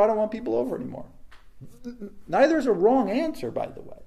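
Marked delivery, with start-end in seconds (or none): 0.0-1.0 quick blunt refusal. Retold or imitated. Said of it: "Or you just go".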